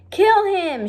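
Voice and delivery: high, loud furious order; shouted. Acted. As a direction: scream the command. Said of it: "shouted Cook".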